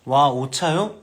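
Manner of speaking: mock surprise. Shown as a demonstration. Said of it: "이렇게 말씀하세요".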